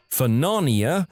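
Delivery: half-hearted mock scream, rising at the end; mock battle cry. Narrator launching himself off the cliff, mild mock battle cry.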